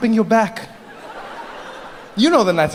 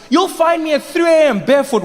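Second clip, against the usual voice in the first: ordinary delivery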